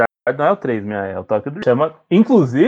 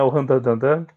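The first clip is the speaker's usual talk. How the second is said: motorcycle revving sound; 4 semitones lower, slower than usual. Pretend. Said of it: "o barulhinho da moto".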